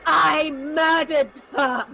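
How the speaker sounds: slow, laughing through the words; laughing confession. Acted. Marlena confessing the murder, slow and laughing. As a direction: savour it with a laugh.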